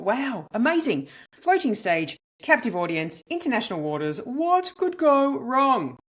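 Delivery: wide-eyed, lively self-quote; retold excitement. Comedian recalling her first thought about the cruise stage, naively excited. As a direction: recall naive excitement, stretching the last question. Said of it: "I was so excited".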